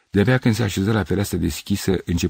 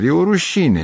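higher and louder indignant cry; raised voice; 10 semitones higher, 5 dB louder than usual. A narrator's reading. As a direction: raise your voice in outrage. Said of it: "exclamă ridicând glasul".

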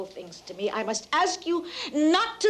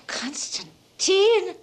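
drawn-out, louder, higher rebuke of his name; sharp rebuke; 6 semitones higher, 4 dB louder, much slower than usual. Acted. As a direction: stretch the name out as a scolding. Mother rebukes son sharply.

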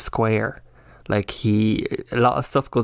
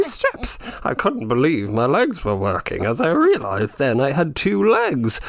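higher, hammed-up florid author voice; pompous writer; 5 semitones higher than usual. Mocking a wordy writer, hammed-up florid author voice. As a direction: read it like an overwrought novelist. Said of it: "he's just like".

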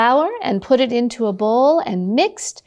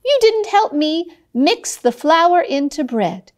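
hen scolding; 3 semitones higher than usual. Acted. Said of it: "the little redhead said".

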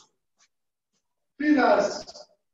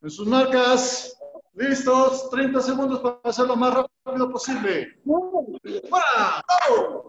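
shouted drill commands; 6 dB louder than usual. Real, not acted. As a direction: bark the start like a trainer. Instructor starting a timed drill.

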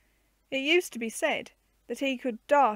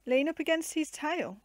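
lightly voiced girl repeating it back, higher; echoed question; 5 semitones higher than usual. Joan repeats her uncle's words, puzzled and higher. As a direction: echo the words back in surprise. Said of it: "echoed Joan".

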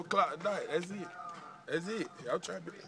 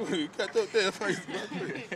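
giggling through the words; chuckling protest; laughing; 2 semitones higher, 5 dB quieter than usual. Real, not acted. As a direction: laugh it out as you repeat. Repeat while laughing.

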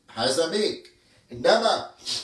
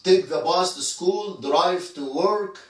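very slow, each word spelled out for learners; slow teaching demo; much slower than usual. Shown as a demonstration. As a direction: drag every word out like a teacher dictating. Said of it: "الرقم تمانية". (نطق بطيء جدا للتعليم)

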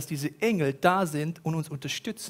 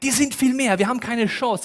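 higher, louder panicked outcry; despair; 5 semitones higher, 4 dB louder than usual. Acted. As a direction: Chance thrown out loud in panic. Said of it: "Vollkommene Verzweiflung".

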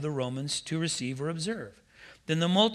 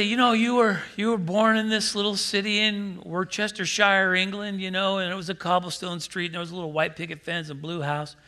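mock gullible believer; 3 semitones higher, 3 dB louder than usual. Preacher mocking folks who swallow past-life tales, in a mock gushing voice. Mocking what people claim.

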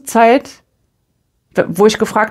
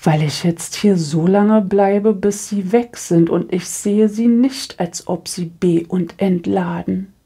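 slow, quiet, cold imitation of the woman; slow, quiet mimicry of the cold woman; mimicking the stern woman; 4 dB quieter than usual. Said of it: "Macht sie so". (langsam und leise, kalte Nachahmung der Frau)

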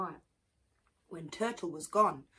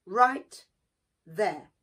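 shouting; 10 dB louder, much slower than usual. A narrator's reading. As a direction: bark the order to halt. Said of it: "But Anansi shouted".

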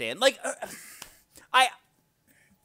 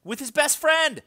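loud mocking outburst, higher; mock exclamation; 11 semitones higher, 8 dB louder than usual. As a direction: hammer the irony home. Mocking the character's line.

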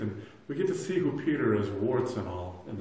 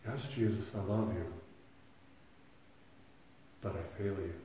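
quiet confession; 2 semitones lower, 8 dB quieter than usual. Retold or imitated. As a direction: let the admission sink to a hush. Voicing a believer confessing failure.

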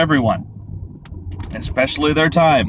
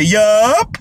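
clipped, louder, higher yup; curt American yup; 7 semitones higher, 5 dB louder than usual. Retold or imitated. An American ending a chat with a European, curt yup. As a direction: shut it down with one word. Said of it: "they say".

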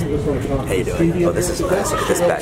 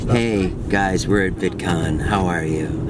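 depressed; 3 semitones lower, slower than usual. Real, not acted. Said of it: "I know I sound depressed".

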